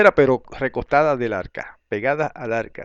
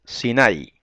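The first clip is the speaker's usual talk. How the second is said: Sinai said as si-NAI; accent the A of Sinai, not the I; Hebrew-style Sinai, weight on NAI; stress on A. Shown as a demonstration. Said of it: "es bueno acostumbrarse también".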